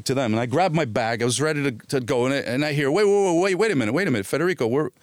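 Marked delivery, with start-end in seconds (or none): 2.9-4.9 calling out. Retold or imitated. Calling after him to stop.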